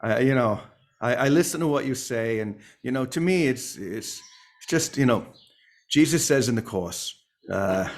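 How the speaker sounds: lightly imitated hesitant speaker; playful impression, halting and unsure; Teddy. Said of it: "Now I'll imitate Teddy".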